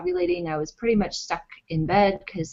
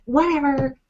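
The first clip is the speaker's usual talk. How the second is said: dismissive whatever; 8 semitones higher than usual. Retold or imitated. Wife cussing at husband on the phone, high and snippy. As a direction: toss it off and hang up. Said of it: "cussing at him".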